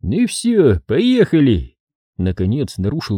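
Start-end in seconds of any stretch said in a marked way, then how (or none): 0.1-1.8 raised, firm order to go; gruff command. A narrator's reading. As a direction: bark the order to leave. Сулейман командует отъезд. (грубый приказ)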